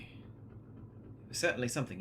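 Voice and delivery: soft whispered aside; a quiet whispered aside. Real, not acted. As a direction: breathe it out under your breath. Muttered aside under breath.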